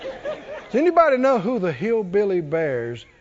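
normal talking voice

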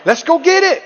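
escalating rally cry; rising shout. Shown as a demonstration. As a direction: build it to a shout.

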